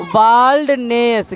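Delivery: बाल्डनेस slowly, "baald-ness"; pronunciation demo. Shown as a demonstration. Teacher answering the spelling drill, slow बाल्डनेस with long "aa". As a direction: draw out बाल्डनेस in two clear parts. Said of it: "क्या लिखेंगे".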